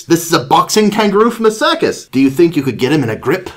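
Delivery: lively storybook British voice; British doctor. Acted. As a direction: explain it urgently in a British accent. British doctor explains to gorilla.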